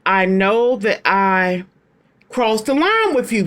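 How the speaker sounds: slow, solemn card reading; reading the card aloud. Retold or imitated. Reader voices the card's message to viewers, slow and solemn. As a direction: voice the ex's confession slowly. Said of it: "Top of the deck card says".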